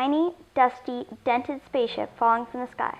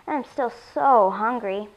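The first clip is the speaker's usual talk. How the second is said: slow, drawn-out "so"; hungry moan; slower than usual. Acted. Alien alone with bitten pumpkin, hungry moan. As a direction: drag it out with craving.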